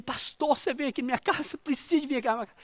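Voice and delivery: hurried, hushed frightened plea; mock panic, words tumbling out softly; imitating panicked child. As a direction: plead fast and small, like a scared child. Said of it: "com uma voz, como um, uma criança assustada, uma criança em pânico".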